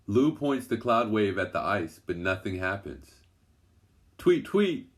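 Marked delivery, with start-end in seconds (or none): 4.2-4.9 much higher chirping tweet, louder; bird call. A narrator's reading. The girls call to a bird under the ice, high chirping. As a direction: chirp it like a little bird calling. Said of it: "the girls call out".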